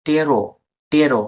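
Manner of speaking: টেরো begun on T as "te-ro"; silent P demo. Shown as a demonstration. Teacher sounds out the first part, clear টেরো. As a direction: say টেরো with a long e, no P. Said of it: "টি উচ্চারণ হবে".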